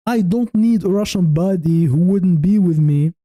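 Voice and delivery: light Russian accent, baddie said as "pɑdi". Shown as a demonstration. Answering a viewer's question, joking in a light Russian accent. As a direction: say "Russian baddie" with a hint of Russian vowels. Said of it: "I said it in, with a Russian accent".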